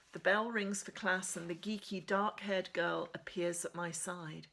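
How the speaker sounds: steady first-person reading of a novel; measured storybook narration; story narration. A narrator's reading. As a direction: read it like a teen heroine telling her story. Reads novel chapter aloud.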